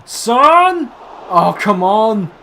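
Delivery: high, loud exasperated cry at the screen; groaning shout of frustration; frustrated yell. Real, not acted. Frustrated yelling at the game.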